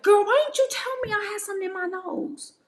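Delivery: high mock girlfriend voice; a lightly voiced friend calling her out; imitating a friend. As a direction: squeal it like a friend teasing. Retold friend's remark, high voice.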